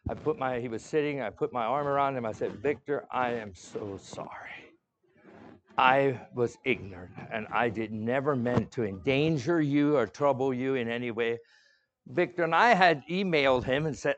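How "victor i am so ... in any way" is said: sincere apology. Retold or imitated. Apologising to Victor, arm around him.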